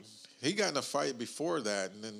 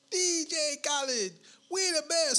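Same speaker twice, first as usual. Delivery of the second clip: a DJ's holler; 14 semitones higher than usual. Retold or imitated. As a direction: holler like a hype DJ. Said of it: "he just hollers".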